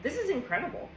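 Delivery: a lightly voiced, delighted self-encouragement; excited self-praise. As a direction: cheer yourself on. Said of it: "It meant that I was saying".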